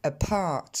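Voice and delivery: "Apart" with a puff of air after the p; p aspiré. Shown as a demonstration. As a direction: model English "Apart" with exploded p. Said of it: "je vous invite à répéter après moi". (« Apart » avec un p soufflé)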